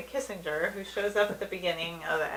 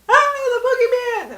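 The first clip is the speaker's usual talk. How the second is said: high, loud comic shriek; retold cartoon panic; mock panicked scream; 8 dB louder than usual. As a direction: yell it out in hammed-up terror. Retelling Homer's panic at boogeyman.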